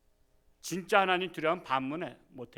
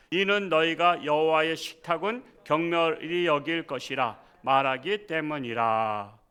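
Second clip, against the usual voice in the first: scripture reading; 4 dB louder than usual. Acted.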